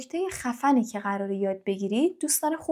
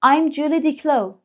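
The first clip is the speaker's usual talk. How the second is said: slow, higher model line; slow, higher I'm Julie Diclo; voicing the girl; 4 semitones higher, 4 dB louder, much slower than usual. Shown as a demonstration. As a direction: read it like the girl in the book. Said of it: "این دختر گل گفته".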